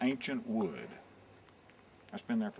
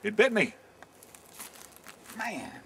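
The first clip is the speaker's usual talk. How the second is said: high, loud yelp of pretend pain; mock pained yell; 11 semitones higher, 4 dB louder than usual. Bitten by the pine cone, he yells out loud.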